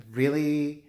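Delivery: sarcastic copy of the "Really?" complaint; mocking "really?" whine.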